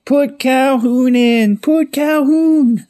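high, stretched-out holler; screaming from cars. Retold or imitated. Drivers headed to the stadium scream for Calhoun, high drawn-out yell. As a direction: imitate fans screaming down the highway. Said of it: "they're screaming down the highway".

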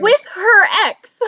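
indignant emphasis. Real, not acted. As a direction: stress the outrage, drawn out. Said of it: "outraged reminder".

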